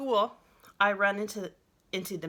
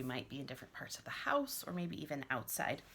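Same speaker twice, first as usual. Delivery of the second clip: whisper; 4 semitones lower, 7 dB quieter than usual. Real, not acted. Playful aside about being outside.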